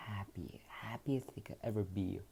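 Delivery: whisper. A narrator's reading. Narrator whispers parents' joy.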